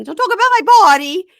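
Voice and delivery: imitating her yelling about her body; mock hysterical shriek. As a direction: screech it at him. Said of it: "as she's yelling".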